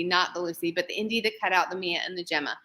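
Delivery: breathless from rattling off names; out of breath, pushing through the list. Real, not acted. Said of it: "I'm out of breath".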